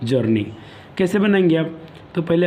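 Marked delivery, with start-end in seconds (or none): 0.1-0.4 slow dictation. Shown as a demonstration. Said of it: "dictating the sentence".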